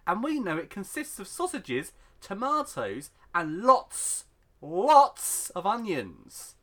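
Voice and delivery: mock-outraged read-out with big stretched emphases; dramatic post reading. Host reads a sausage surprise complaint to co-host, mock-outraged read-out. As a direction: build it into a grand complaint, punching key words.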